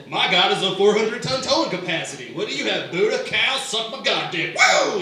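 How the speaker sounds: a brash God bragging like a truck ad, ending in a whoop; Southern Baptist God. Retold or imitated. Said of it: "the voice of, like, Southern Baptist God".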